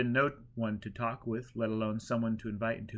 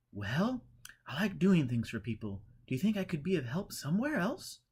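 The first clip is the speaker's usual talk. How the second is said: excited pilgrim; 6 semitones higher than usual. A narrator's reading. Pilgrim boasting to the holy man, higher and eager. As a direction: bubble over with pride.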